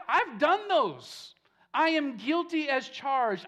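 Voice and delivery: earnest, swelling confession that fades at the end; pleading confession. Acted. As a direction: pour out guilt as if owning every charge. Voicing David's confession.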